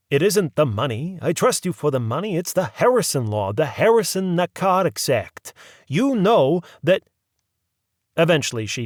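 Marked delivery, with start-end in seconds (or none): 0.1-7.0 patient druggist. A narrator's reading. Druggist explaining law.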